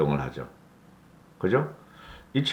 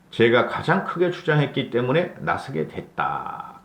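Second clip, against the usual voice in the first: reading a quote aloud; 3 semitones higher than usual. Shown as a demonstration. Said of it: "문장 센터스 읽어드리고".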